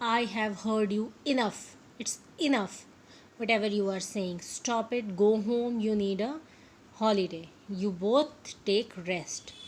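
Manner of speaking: firm mock anger ordering them home; angry. Manager sending his two men home, mildly angry. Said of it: "he became angry".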